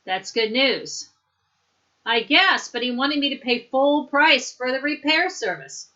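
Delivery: lightly acted, lively textbook conversation; dialogue read aloud. Teacher acts out bicycle repair chat for students, lightly animated. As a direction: read both parts with exaggerated questioning and reacting tunes.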